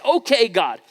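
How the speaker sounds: half-playful angry outburst at God; psalmist's rage. Acted. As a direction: voice the psalmist shaking his fist at God. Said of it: "his rage says".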